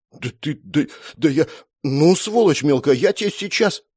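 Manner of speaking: high, sputtering furious threat. A narrator's reading. Sister lunging at brother, sputtering with rage. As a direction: lose words in rage. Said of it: "высказалась Света с угрозой".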